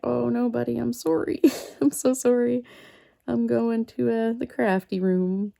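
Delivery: sorry little buddy voice, lifted up; apologetic cat talk. Retold or imitated. Telling the excited cat she must go craft, sweetly apologetic.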